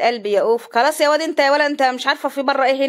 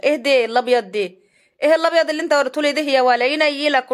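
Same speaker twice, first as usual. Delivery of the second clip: mock scolding; 3 semitones higher than usual. Real, not acted. Scolding the cameraman.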